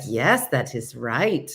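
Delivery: slow, lilting imitation of Jurgen's accent; borrowed Jurgen accent, drawn out; Jurgen's way of talking. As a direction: stretch it out in a mimicked Jurgen accent. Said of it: "It's just, it's the Jurgen".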